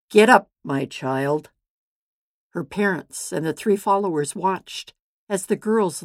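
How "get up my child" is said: firm, loud call to wake her; loud command. Acted. Jesus to the dead girl, loud command. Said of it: "spoke loudly".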